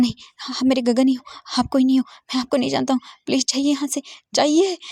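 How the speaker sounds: high, loud, fast denial; frantic shout. Acted. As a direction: yell him out of the room. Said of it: "वी जिंग जोर से चिल्ला रहा था". (तेज़ और ऊँचा चीखता इनकार)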